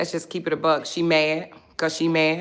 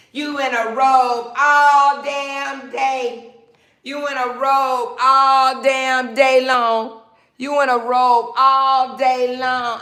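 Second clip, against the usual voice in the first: mocking a hater; 4 semitones higher, slower than usual.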